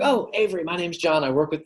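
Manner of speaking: lifted, familiar cold-call hello; quick bridge-building opener. Shown as a demonstration. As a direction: jump in quickly to build rapport. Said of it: "I wanna very quickly".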